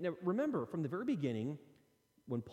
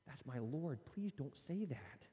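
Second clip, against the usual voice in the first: soft, slow, pained pleading; hurt plea; 7 dB quieter, slower than usual. Retold or imitated. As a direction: plead gently, wounded. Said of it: "and you're like".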